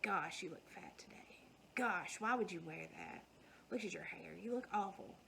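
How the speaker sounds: half-whispered, cutting self-talk; harsh inner critic. Retold or imitated. Daughter's imagined inner critic at the mirror, partly whispered. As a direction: murmur the mean voice in the mirror under your breath.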